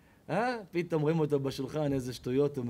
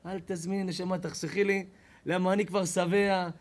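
gracious diner; 3 semitones higher, 4 dB louder than usual. Acted.

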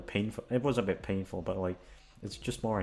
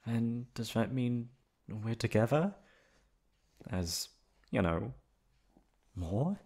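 a shy, emotional lover, happy and nervous in turn; tender girlfriend confession. Acted. Girlfriend hoping her partner means it, tender and emotional. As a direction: play the girlfriend who can't believe she's wanted.

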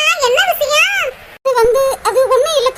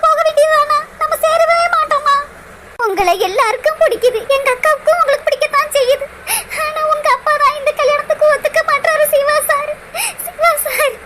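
crying. Acted. Girl weeping to absent lover.

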